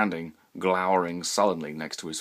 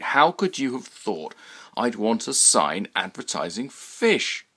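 higher, louder, insistent pleading; exasperated reasoning; 4 semitones higher, 5 dB louder than usual. Acted. Roy arguing with the sign man, exasperated. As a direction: press your case, rising exasperation.

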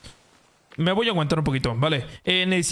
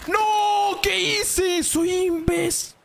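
mock despair; 13 semitones higher, much slower than usual. Fire fails, mock despair.

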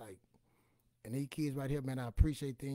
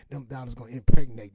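emphatic punchline; 20 dB louder than usual. Acted. Dollars multiplying bit, punchline.

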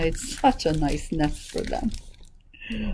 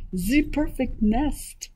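higher, slow, drawn-out duck exclamation; duck's cry; 5 semitones higher, slower than usual. Acted. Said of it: "she cried".

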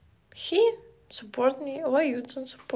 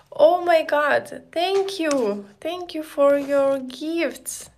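excited thanks; 3 semitones higher, 5 dB louder than usual. Real, not acted. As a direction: gush over the gifts. Thanking viewers for gifts.

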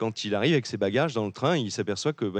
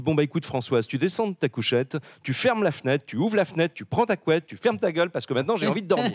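higher, louder, bossy list of orders; exasperated punchline; 6 semitones higher, 4 dB louder than usual. Acted. Tired traveller ordering the woman around, exasperated. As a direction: rattle off orders, fed up.

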